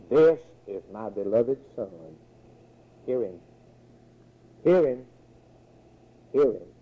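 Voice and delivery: spaced-out commands, each one left to ring; voice from the cloud. Acted. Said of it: "a voice came out of that cloud saying".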